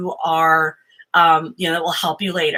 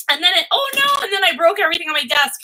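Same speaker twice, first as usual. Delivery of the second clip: frantic; 9 semitones higher, faster than usual. Retold or imitated. Mock freak-out, voice jumps up.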